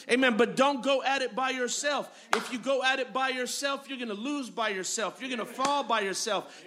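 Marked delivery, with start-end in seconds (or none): 2.4-6.6 dropping quiet. Acted. Pastor warns against going alone.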